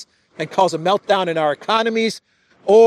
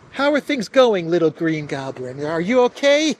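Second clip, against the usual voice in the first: mock Macron consoling. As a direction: coo over him like a worried friend. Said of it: "so they can comfort and console the little green goblin".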